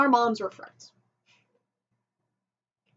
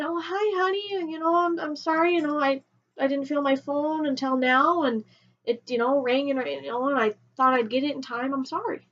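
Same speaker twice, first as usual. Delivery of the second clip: put-on lightly raised, sugary apologetic girlfriend voice; sweet apology; 2 semitones higher than usual. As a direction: sound sweet and sorry to win him back. Sweetly apologising to boyfriend on phone.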